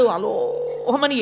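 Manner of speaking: drawn-out mock crying noise; imitated child's wail. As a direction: stretch out a pretend bawl. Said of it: "ఏడుస్తూ అమ్మ దగ్గరికి వెళ్ళాడు".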